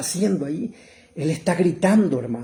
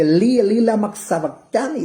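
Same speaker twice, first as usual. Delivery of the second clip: loud, high cry from the cross; acted cry of abandonment; Jesus; 5 semitones higher, 5 dB louder than usual. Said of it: "cuando él está en la cruz".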